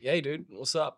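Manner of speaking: laid-back American dude greeting; American accent, relaxed; casual American accent. Shown as a demonstration. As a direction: greet a buddy like a chill American. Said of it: "I can do an American accent".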